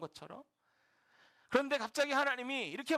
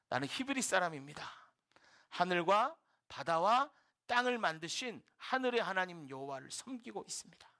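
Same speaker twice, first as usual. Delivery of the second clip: acted steady, untrembling declaration; calm, composed; 3 semitones lower than usual. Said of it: "아주 담담하게, 전혀 떨리지 않고". (전혀 떨림 없이 담담하게)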